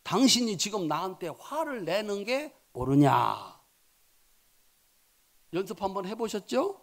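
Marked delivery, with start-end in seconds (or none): 0.0-3.6 calm asking. Shown as a demonstration. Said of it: "요렇게 한번 물어보십시오".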